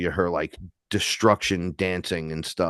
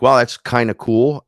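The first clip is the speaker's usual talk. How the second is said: impressed; 3 semitones higher, 7 dB louder than usual. Retold or imitated. Quoting own reaction.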